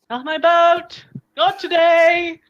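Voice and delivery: drawn-out high holler across the water; loud, high, hammed-up distant call; distant voice shouting. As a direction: yell it long and loud from far off. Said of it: "You hear a voice from somewhere".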